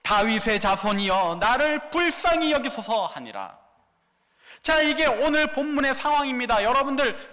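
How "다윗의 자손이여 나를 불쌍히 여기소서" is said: crying out even harder; louder cry. Acted. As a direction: push the plea out louder. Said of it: "더욱 크게 소리질러 이르되".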